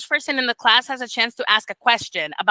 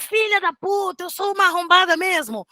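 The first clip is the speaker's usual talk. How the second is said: mock self-cursing; 8 semitones higher than usual. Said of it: "I can't be like".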